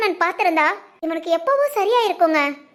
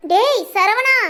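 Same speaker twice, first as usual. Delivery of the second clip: calling again; 4 semitones higher, 3 dB louder, much slower than usual. Acted. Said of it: "இசக்கி, திரும்பவும் கூப்பிடு".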